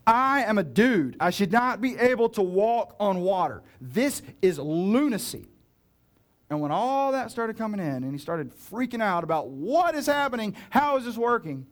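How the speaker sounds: emphatic, mildly hammed-up disbelief; voicing Peter's rising alarm at the impossible; incredulous freak-out. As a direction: stretch the key words in mounting disbelief. Voices Peter's disbelieving panic.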